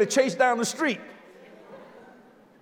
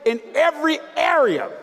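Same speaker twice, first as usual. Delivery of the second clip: shouted climax; 3 semitones higher than usual. Acted. Preacher building to climax.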